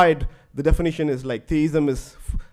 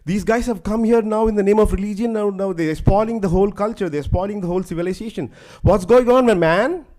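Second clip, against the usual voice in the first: raised, louder mock lament; 4 semitones higher, 4 dB louder than usual. Girl laments to her lover about her spoiled village, mock lamenting. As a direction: complain loudly, as if crying to a lover. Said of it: "she starts lamenting. She's crying".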